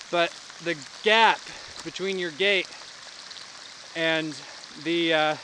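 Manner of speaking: winded from the climb, breathing hard. Real, not acted. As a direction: talk between breaths after a climb. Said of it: "Sorry, I'm a little bit out of breath".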